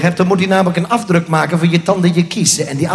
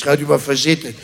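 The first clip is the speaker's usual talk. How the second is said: mock repeat; 6 semitones lower, 3 dB quieter than usual. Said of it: "Zitten noemt hij dat".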